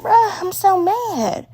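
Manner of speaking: playful fake fury at the movie; mock outrage. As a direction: stretch each word like you can't believe it. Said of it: "And I'm just like".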